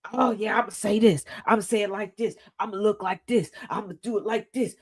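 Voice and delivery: lightly voiced kid planning ahead; a hint of an eager child; scheming kid. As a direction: play at being a kid rehearsing big plans. Voicing an eager kid planning cuss words.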